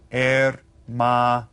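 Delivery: hermano begun on the vowel, slow, syllable by syllable; silent H. Shown as a demonstration. Teacher showing how we read it, hermano with silent H. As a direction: say hermano slowly as er-ma-no. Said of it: "the H is silent when we read".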